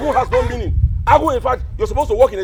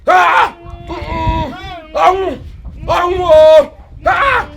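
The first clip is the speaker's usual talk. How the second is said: grief-stricken wailing; 4 semitones higher than usual. Acted. Mourner begs dead Onwu to come and take them, wailing. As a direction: plead through the mourning, voice raised. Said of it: "I don't have mouth to cry".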